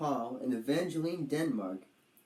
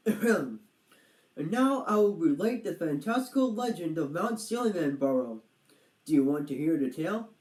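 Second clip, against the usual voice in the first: grand storyteller; 3 semitones higher, 4 dB louder than usual. Acted. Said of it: "his best storytelling voice".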